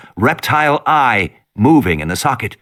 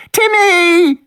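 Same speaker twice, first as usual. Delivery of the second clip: put-on terrified girl's cry; 3 dB louder than usual. Lex cries out for brother.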